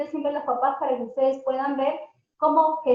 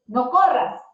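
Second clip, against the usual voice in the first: louder, a quick snapping order; sharp command; 6 dB louder, slower than usual. Shown as a demonstration. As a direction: stop a running child. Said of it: "example negative phrase".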